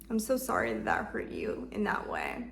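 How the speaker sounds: whispered apology; comforting whisper. Shown as a demonstration. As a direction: whisper it tenderly. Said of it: "comforting her".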